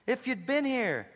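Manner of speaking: a quiet, hurt echo of Martha; disappointed. Acted. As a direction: linger on the loss. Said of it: "the disappointment in Martha's voice".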